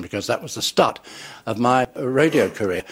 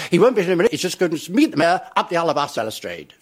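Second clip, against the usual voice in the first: mock garbled line; 5 semitones higher than usual. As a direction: gabble the line wrong like a nervous stooge. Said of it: "every time I disappear ... you say".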